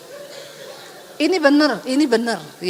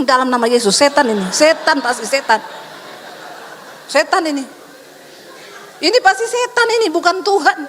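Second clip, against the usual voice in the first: mock rebuking prayer. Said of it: "Langsung saya tengking".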